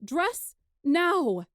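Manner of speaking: mother ordering daughter to dress; mother's command. Acted. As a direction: snap the order like a strict mother. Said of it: "my mother commanded".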